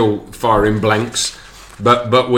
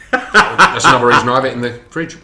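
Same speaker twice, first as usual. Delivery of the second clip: chuckling through the words; laughing at own joke; 2 semitones higher, 4 dB louder than usual. Real, not acted. Joking about hiding chocolate.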